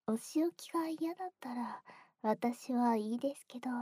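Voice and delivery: teasing ear whisper; sly whisper. Acted. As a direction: whisper it with mock indifference.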